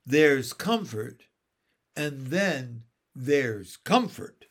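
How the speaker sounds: slow, disdainful sniff; sniffy. Acted. Mary Poppins scorning her uncle, a mild sniffy retort. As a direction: dismiss it with a sniff. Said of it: "sniffed Mary Poppins".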